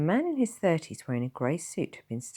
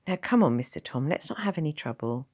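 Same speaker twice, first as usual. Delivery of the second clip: higher, slightly louder nurse voice; young nurse; 3 semitones higher, 4 dB louder than usual. Acted. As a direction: apologise but hold firm.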